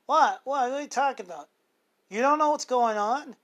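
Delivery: a mother who hasn't heard the news, loud and shocked; shocked disbelief. Retold or imitated. Mom asking her son what's happening, loud disbelief. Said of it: "And she goes".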